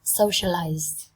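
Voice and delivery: "Socialize" slow, final -ize with a clear z; z sound ending. Shown as a demonstration. Teacher stressing the final z sound for students. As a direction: buzz the z at the end of "Socialize". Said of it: "các bạn đọc thành âm Z".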